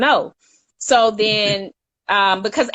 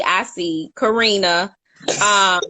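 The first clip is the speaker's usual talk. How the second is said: tearful. Real, not acted. Moved by the casting story, tearful. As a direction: voice catching with tears. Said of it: "I'm not crying".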